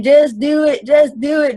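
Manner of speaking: imitated Texas country coach, mildly emphatic. Football coach repeating his motto to the team, light Texas country accent. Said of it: "he's real country, he's from Texas".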